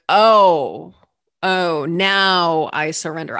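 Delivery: loud "Oh", then slow realisation; knocked-down realisation. Acted. Speaker to herself after being knocked down, dawning surrender. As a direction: give in slowly after a blow. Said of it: "knock you down. And I'm like".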